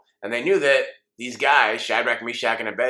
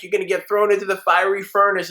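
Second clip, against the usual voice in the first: mock furious king; 7 semitones higher, 5 dB louder, faster than usual. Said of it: "He's like".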